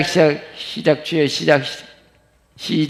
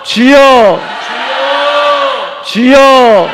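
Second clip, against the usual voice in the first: high, loud prayer shouts; fervent threefold call to God; earnest cry; 9 semitones higher, 7 dB louder, much slower than usual. Shown as a demonstration. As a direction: let each cry surge up from the heart. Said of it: "간절히 막 솟아나야 돼".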